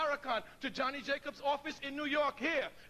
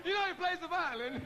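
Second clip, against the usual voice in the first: laughing; 5 semitones higher than usual. Real, not acted. Laughing, repeating the aside.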